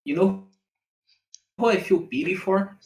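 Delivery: light Latin accent; Latin-flavoured retake of the question. Real, not acted. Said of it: "you're saying it in a Latin accent".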